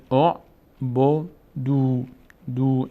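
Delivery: «او بو دو» slowly, starting on short o; ضمه، شمرده. Shown as a demonstration. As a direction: sound out «او بو دو» syllable by syllable. («او بو دو» شمرده، با ضمه در آغاز)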